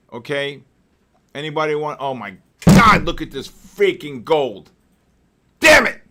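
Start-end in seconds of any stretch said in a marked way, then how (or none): 2.0-4.7 alarmed exclamation. Real, not acted. Gold price suddenly moves. 5.6-6.0 sharp, loud, high curse; angry outburst. Real, not acted. Gold trade goes wrong.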